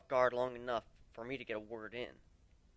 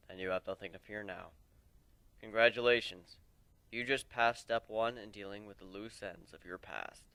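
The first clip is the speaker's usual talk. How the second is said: put-on a lower, weary old warrior voice; lightly lowered voice of a weary mentor; lower voiced warrior; 5 semitones lower than usual. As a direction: speak as the old lone warrior, regretful. Old warrior Aoi speaking.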